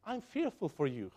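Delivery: low, hushed worry for the flock; softly fearful. Retold or imitated. Paul quietly confessing fear to the Galatians, hushed. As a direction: say it quietly, almost to yourself. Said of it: "notice what he says".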